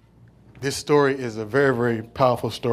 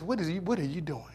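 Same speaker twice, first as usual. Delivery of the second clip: self-righteous Pharisee, growing louder and higher; the Pharisee scolding Jesus, louder and higher; indignant Pharisee; 6 semitones higher, 7 dB louder than usual. Retold or imitated. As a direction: demand it, rising in outrage. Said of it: "He says".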